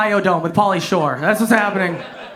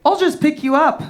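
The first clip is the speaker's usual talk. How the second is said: mock-casual calm offer; imitating an unbothered girlfriend; 5 semitones higher than usual. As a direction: say it evenly, as if lifting someone is nothing. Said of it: "She very calmly was like".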